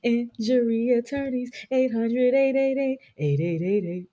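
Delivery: slow jingle-like attorney ad read; lawyer ad read. Retold or imitated. Mocking a New York injury lawyer commercial, slow. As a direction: read the hotline number like a TV spot. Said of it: "my favorite one".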